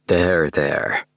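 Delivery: gentle, soothing there-there; mild soothing tone to a dazed man. A narrator's reading. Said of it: "I said, soothingly".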